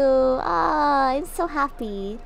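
high, loud, drawn-out mock delight; hammed-up squeal of happiness; overjoyed thanks. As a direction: stretch out every word in giddy gratitude. Celebrating praise begged from chat.

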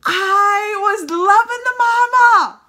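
slow, high, loud gushing. Real, not acted. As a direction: drag it out, thrilled. Gushing about the mom.

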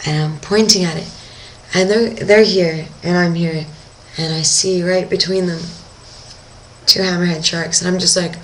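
ordinary delivery

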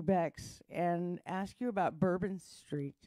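low, slow seductive voice; sexy voice. Pretend. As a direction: purr it low and slow to tease. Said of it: "I'm gonna use my sexy voice on you".

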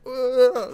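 high startled "ugh", mimicking someone; imitated scared noise. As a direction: impersonate a friend's scared little noise. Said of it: "when he's scared".

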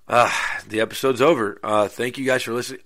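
mock wrap-up, rushed out; fake sign-off. Host fakes the end of the episode to tease listeners, breezy. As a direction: pretend the show is ending, quick and breezy. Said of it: "No, that's a damn lie".

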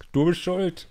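high mocking blame, stress on bist; parroting the ex's blame; mock accusation. Imitiert Schuldzuweisung des Ex. (spöttische Schuldzuweisung)

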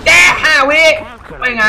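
sudden high yelled call; loud high urgent shout. Real, not acted. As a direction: yell it out mid-fight. Frantic gameplay shout.

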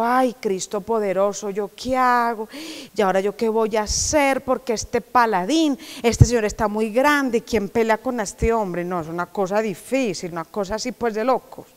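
a scared king wringing his hands; frightened king. Acted. The king, afraid of the giant, frets quietly.

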